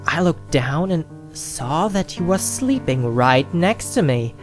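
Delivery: usual speaking voice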